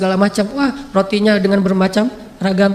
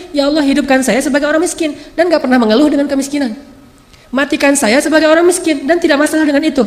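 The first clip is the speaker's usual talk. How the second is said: earnest prayer; 4 semitones higher than usual. Retold or imitated. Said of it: "sampai memilih".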